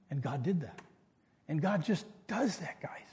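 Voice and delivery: sudden soft whisper to the congregation. Real, not acted. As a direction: lean in and whisper it close. Pastor drops voice to congregation.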